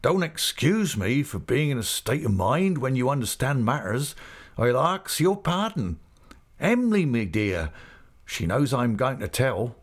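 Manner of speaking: rustic character voice, gently lifted; Mister Peggotty, elated. Acted. Excited uncle begging pardon of guests, hearty rustic voice. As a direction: apologise happily in country dialect.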